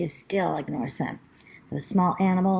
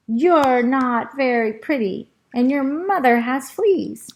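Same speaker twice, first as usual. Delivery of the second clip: taunting squirrel yelling down, louder; 4 semitones higher, 5 dB louder than usual. Acted. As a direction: jeer down at the dog. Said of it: "he yells down to the dog".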